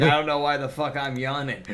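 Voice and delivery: laughing. Retold or imitated. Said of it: "That's why I'm like".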